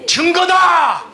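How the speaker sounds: high, loud preaching shout; fervent preacher's shout; shouted climax. Real, not acted. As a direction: cry the last word out to the hall. Preacher leads congregation repeating.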